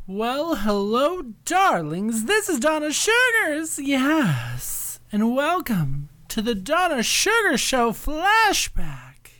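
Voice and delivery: drawn-out fabulous diva greeting; sassy showbiz hostess; campy drag queen. Acted. Drag host greeting on show.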